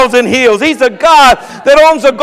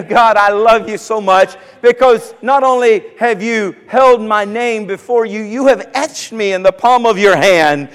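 rising into declaring prayer; preacher's bold praying voice; fervent prayer. Acted. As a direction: pray it out, building to a shout. Preacher prays aloud at length.

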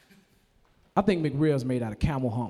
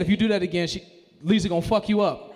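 emphatic warning; 4 semitones higher than usual. Shown as a demonstration. Naming audience member as example.

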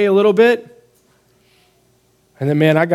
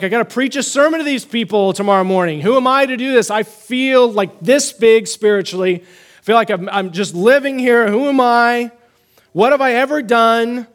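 higher, exasperated pleading questions; retold despairing self-talk, pitched up; discouraged self-doubt; 4 semitones higher than usual. Preacher retelling his doubts before Sunday's sermon, discouraged pleading. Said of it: "I was discouraged".

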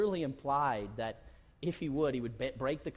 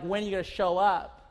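loud, higher, demanding God; loud exasperated plea; impatient cry; 6 semitones higher, 8 dB louder than usual. Retold or imitated. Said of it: "and you're like".

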